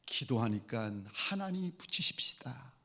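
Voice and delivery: low, near-whispered aside, as if unable to say it; hushed, dropped voice for words held back; reluctant murmur. Retold or imitated. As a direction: mumble it under the breath. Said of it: "그 말을 못 하겠는 거예요".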